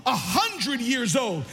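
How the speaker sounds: high-pitched, impassioned pulpit preaching; fired-up preaching. Acted. Preacher rallying the church about sap and old saints, fired-up preaching. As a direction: preach it with full force, voice lifted.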